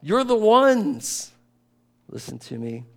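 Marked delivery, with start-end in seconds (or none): 0.0-1.3 God rebuking his people, lightly voiced; God's voice lightly voiced. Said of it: "God said".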